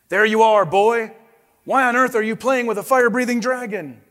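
a father bellowing at his son; booming father. Acted. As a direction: call out to the boy, startled and cross. Angry father calls out son.

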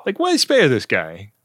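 breathy whispered question. Real, not acted. Cohost whispers to cohost in disbelief, whispering.

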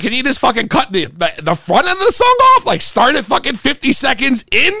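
high, urgent pleading to the DJ; retold plea to the DJ, voice climbing. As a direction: beg the DJ to cut the intro. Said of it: "I'm pleading with the D J".

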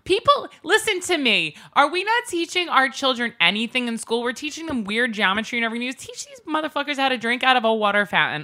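high-pitched, comic soapbox plea; indignant, high ranting appeal; exasperated rant. Real, not acted. Mock rant about fountain manners.

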